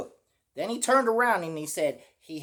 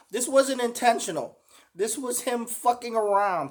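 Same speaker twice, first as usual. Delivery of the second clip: laughing disbelief; 6 semitones higher than usual. Real, not acted. Laughing at the speaker's claim.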